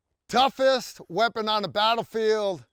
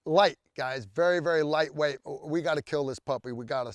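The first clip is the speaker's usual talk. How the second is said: normal talking voice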